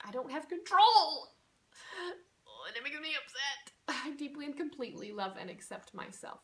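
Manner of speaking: begins hushed and breathy, swells to an upset cry, then settles; acted distress, then affirmation. Shown as a demonstration. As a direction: voice an upset client, building then calming. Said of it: "you're gonna repeat this out loud".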